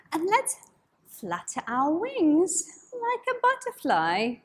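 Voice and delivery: put-on bright, singsong voice for kids; cheery children's host; overbright kids party host. Kids yoga teacher greeting.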